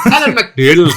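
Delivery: put-on giggly Irish accent; laughing mock Irish accent. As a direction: copy the name in Irish accent while laughing. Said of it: "take a shot at the Irish accent".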